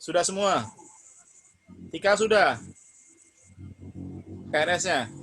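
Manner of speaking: choppy call audio breaking up; glitching robot; voice cutting out. Real, not acted. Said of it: "Suaranya putus-putus". (suara putus-putus)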